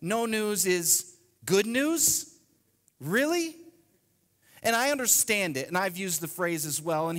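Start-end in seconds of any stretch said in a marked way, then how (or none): 0.0-2.3 slow, doubting question; sceptical quote. Shown as a demonstration. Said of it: "the saddest things I think we say". 3.0-3.5 high incredulous really. Real, not acted. Mocking the saying.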